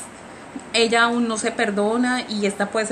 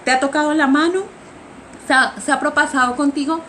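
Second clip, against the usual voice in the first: imitating jealous anger, slightly higher; lightly acted indignant questioning, voice raised a touch; mildly raised voice; 4 semitones higher, faster than usual. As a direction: retell a jealous confrontation with restrained annoyance. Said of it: "subiendo el tono de la voz".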